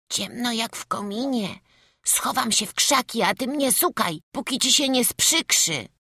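little lad daring the dark, high and bold; playful small boy. A narrator's reading. Boy hiding in the forest, high and playful. Boy talking to himself in woods.

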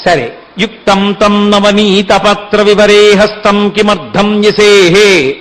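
slow, measured Sanskrit chanting; verse recitation. Acted. Preacher quoting the gopika's verse, slow and measured. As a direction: intone each word of the verse deliberately.

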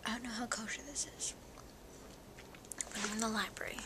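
whispering while chewing gum. Real, not acted. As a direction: talk around a piece of gum. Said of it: "I just put gum in my mouth".

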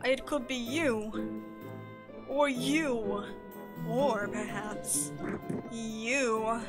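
cheesy NASA recruiter pitch; announcer voice. Acted. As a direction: hype up the crowd like a presenter.

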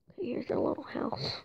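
soft whispered aside; hushed whisper. Real, not acted. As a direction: breathe it out quietly. Whispering while sneaking in game.

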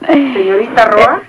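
stern call. Acted. Head nurse catches her flirting.

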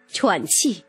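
plain reading voice

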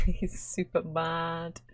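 ordinary delivery

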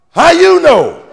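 laughing, high mock shout; mock holler. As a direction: call it out like the heckling elder. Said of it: "hollered out".

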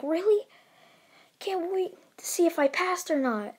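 a touch of eager excitement; lightly voiced eager kid; eager boy. Boy hears his letter arrived.

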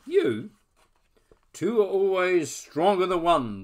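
high tiny creature voice; a small squeaky voice from the dark; squeaky bat voice. Acted.

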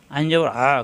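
আ squeezed from mid-throat; throaty Arabic ayn on আ; pressed throat sound. Shown as a demonstration. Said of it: "কণ্ঠনালীর মাঝখানে চাপ সৃষ্টি হবে".

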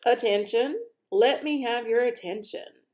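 high, forceful demand; insistent. A narrator's reading. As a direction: call the room to order as king. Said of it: "insisted the king".

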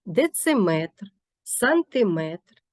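slow, with метр stressed in Дециметр and сантиметр. Shown as a demonstration. Teacher showing stress on метр, slow. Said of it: "метр є наголошеним".

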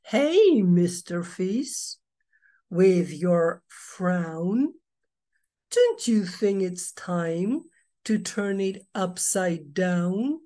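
a chirpy clam coaxing the fish; cheerful clam. Acted. Smiling clam teasing the glum fish, bright then slow. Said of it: "the smiling clam says".

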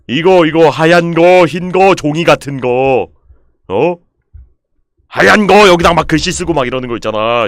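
높고 크게, 느리게 끊어 설명하기; 못 알아듣는 사람에게 소리쳐 가르치기; 답답한 설명. Real, not acted. Loudly explains what white is. (답답해서 고함치듯 설명)

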